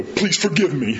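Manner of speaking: laughing grudging please forgive me; mock sullen. Shown as a demonstration. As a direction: try it sulky and fail. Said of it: "hard to do that that way".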